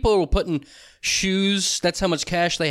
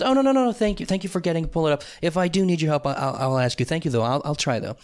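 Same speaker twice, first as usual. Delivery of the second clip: imitated grateful refusal; faster than usual. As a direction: act out a friendly, thankful no. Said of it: "the other person said it to me that way".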